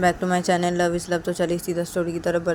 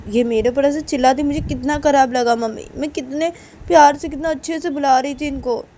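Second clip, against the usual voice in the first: higher, louder aggrieved complaint; acted upset, voice raised in pitch and volume; hurt protest; 5 semitones higher, 6 dB louder than usual. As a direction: protest as the wronged one. Uma protests she was hurt.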